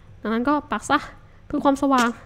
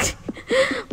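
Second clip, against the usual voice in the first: high giggle; 12 semitones higher, 4 dB quieter than usual. Real, not acted. Laughing at own eating.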